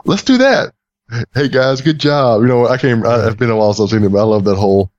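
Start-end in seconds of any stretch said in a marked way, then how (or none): 0.0-2.4 higher, slow, mock-earnest crew member voice; imitating movie character. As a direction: imitate the alien crewman calling the Captain, climbing high. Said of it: "that whole shtick he does".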